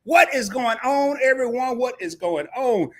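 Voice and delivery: fired-up stream welcome; hype greeting. Acted. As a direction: call out to the whole room. Host greeting viewers.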